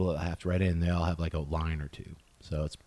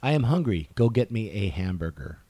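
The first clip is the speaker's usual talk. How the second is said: louder American demo read; American accent; 3 semitones higher, 4 dB louder than usual. Shown as a demonstration. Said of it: "hamburger is more American".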